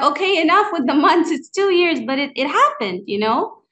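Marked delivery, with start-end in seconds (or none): 0.0-2.0 retold exasperation. Retold protest at husband's month count.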